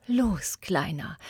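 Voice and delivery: a breathless whisper, barely voiced; too moved to speak, just breathe the words. Tree too happy to speak, whispering to the boy. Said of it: "flüsterte er".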